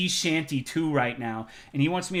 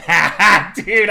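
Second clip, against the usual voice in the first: laughing; 5 semitones higher, 11 dB louder than usual. Real, not acted.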